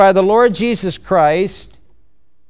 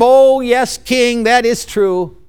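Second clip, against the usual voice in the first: fawning courtiers; 3 semitones higher than usual. Acted. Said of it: "all the men would say".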